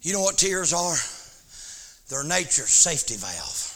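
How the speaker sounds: soft quiet preaching. Acted. Quiet aside about tears.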